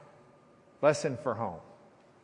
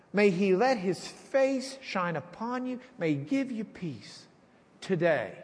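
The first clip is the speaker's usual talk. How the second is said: blessing prayer. Acted. Prays a blessing.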